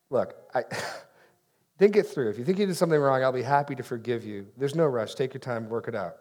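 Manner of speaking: patient and easy reassurance; gentle, forgiving. Shown as a demonstration. Pastor showing a kind reply to an apology, forgiving. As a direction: reassure them there's truly no hurry. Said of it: "if I said it like that, that's different".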